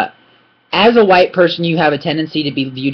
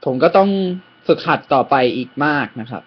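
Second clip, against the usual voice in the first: modest demo; much faster than usual. Shown as a demonstration. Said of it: "Something like this".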